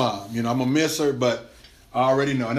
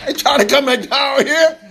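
laughing; 11 semitones higher, 6 dB louder than usual. Real, not acted. Laughing at own joke.

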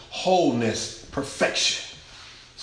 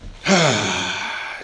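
long, audible breathy sigh; heavy sigh; 5 semitones lower than usual. Real, not acted. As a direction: let out a big sigh. Overcome in the middle of sermon.

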